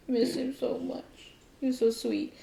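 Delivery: high, tender little voice; tenderly wistful; fond, wistful. Real, not acted. Fondly remembers previous cat.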